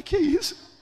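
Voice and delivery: high-pitched jolt of disbelief; startled exclamation. Retold or imitated. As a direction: blurt it out, taken aback. Reacts to startling news. (exclamação de espanto, aguda)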